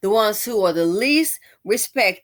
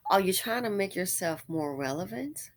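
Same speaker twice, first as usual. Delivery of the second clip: hushed, breathy jab; whispered jab; 7 dB quieter than usual. Real, not acted. Questioning the tweeter's motives, whispered. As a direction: whisper the dig.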